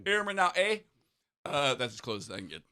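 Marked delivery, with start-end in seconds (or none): 0.0-0.8 put-on Jamaican accent. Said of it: "I'm trying to formulate a Jamaican Canadian accent".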